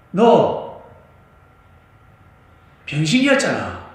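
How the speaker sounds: loud, high scolding; scolding rebuke. Acted. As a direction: berate him for his ingratitude. 제자가 유대인을 꾸짖는 장면. (높고 크게 꾸짖는 호통)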